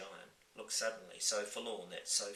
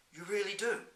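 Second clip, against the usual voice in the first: excited giant; 12 semitones higher, 6 dB louder than usual. Acted. Giant delighted.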